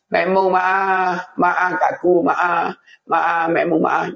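drawn-out, repeated plea for forgiveness; a touch of pleading to a wife; pleading dying husband. Acted. Dying husband begs wife's forgiveness. (merayu minta maaf)

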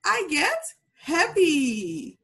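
slow, clear model for repeating; slow model phrase. Shown as a demonstration. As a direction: spell it out slowly for the class. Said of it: "So you can say".

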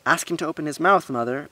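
high, loud insistent plea; eager tattling insistence; urging. A narrator's reading. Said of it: "Balarama urged".

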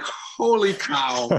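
put-on slow, high, stunned holy cow, retelling a boyhood shock; a kid gaping up at a giant stranger; awestruck. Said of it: "And I was like".

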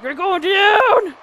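loud, high, drawn-out battle cry; fierce full-voice taunt; shouted threat. Real, not acted. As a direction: bellow triumphant menace, stretching it. Threatening game opponent.

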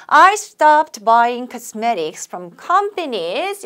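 slow, phrase by phrase; chunked model reading. Shown as a demonstration. Teacher chunking a sentence for students, slow. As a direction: read in meaning chunks for learners. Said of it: "의미 단위로 좀 끊어볼까요?".

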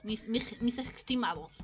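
put-on in character with a French accent; Spanish with French-style throaty r's. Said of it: "tengo que meterme en mi personaje". (acento francés fingido)

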